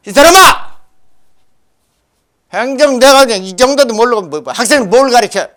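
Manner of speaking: retold scolding, high loud burst at the start; 야단치는 말. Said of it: "막 야단을 쳤어". (목청 높여 야단치는 흉내)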